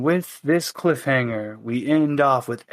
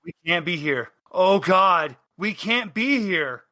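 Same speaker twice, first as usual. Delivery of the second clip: scared; 2 semitones higher than usual. Acted. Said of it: "sweating and scared shitless".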